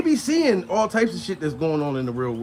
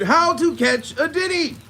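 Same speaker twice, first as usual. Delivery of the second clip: a slow, higher announcer-style title; mock show title; 9 semitones higher than usual. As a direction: boom it like a TV special.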